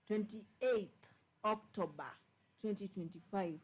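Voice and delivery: slow, spaced-out reading of the date; slow, deliberate dictation. Shown as a demonstration. Commentator reads the date slowly to listeners. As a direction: read the date out slowly, word by word. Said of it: "One voice change now".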